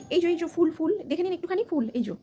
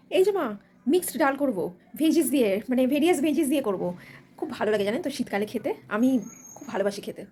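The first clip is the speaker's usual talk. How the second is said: lower, slow, sweetly explaining bride; modern daughter-in-law; 3 semitones lower than usual. Acted. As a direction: chirp about mixed veggies, much lower.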